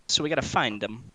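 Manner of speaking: a hint of an urgent companion; Walder's voice. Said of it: "Walder says".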